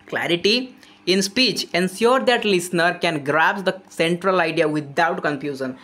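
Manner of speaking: slow, deliberate reading of an English text; reading out definition. Acted. Teacher reads the textbook definition to students, slowly. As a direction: spell it out slowly for the class.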